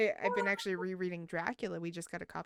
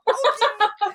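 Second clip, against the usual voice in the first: resigned okay; 16 dB louder than usual. Retold or imitated. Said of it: "And I'm like".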